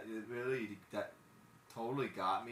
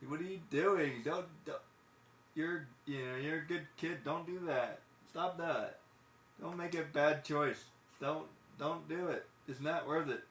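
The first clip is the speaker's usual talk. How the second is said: raised pitch, earnest scolding; pleading with Riley; 5 semitones higher than usual. Retold or imitated. Talking to Riley about stealing, raised pleading voice. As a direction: beg a kid not to steal.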